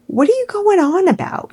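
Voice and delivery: high, incredulous question; can't believe what you're hearing; sharp incredulous rise; exasperated disbelief. Real, not acted. Exasperated at her claims.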